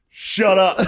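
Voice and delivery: high, laughing shut up; laughing imitation. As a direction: giggle out the heckler's line. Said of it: "the guy just goes".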